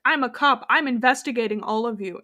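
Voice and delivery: mildly forceful mock cop announcement; aggressive cop. Retelling Edward arriving on the island, mock-aggressive. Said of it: "he's very aggressive".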